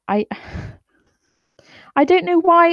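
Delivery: sighing whisper; exasperated. Real, not acted. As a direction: breathe it out in frustration. Exasperated sigh.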